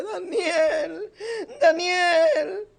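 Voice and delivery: sad voice. A narrator's reading. King calling Daniel again, sad and tearful. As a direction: call him again, grieving. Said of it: "con voz triste".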